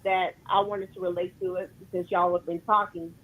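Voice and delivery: distant caller, far from the phone; speaking away from the phone; phone held away. Real, not acted. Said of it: "You sound like you're far away from the phone".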